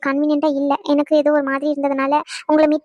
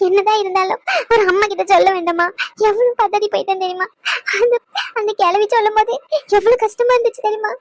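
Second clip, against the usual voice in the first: higher, tearful voice asking why she wasn't told; tearful pleading; 5 semitones higher than usual. Acted. Mother to hospitalised daughter, tearful higher pleading. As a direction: plead through tears, pitch rising. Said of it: "இங்க ஒரே அழுகையோ அழுகை".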